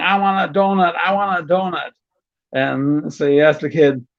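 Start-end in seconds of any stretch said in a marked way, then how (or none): 0.0-1.9 put-on higher whiny kid chant; half-hearted whine of a bratty kid; mock bratty kid. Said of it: "the kid starts screaming".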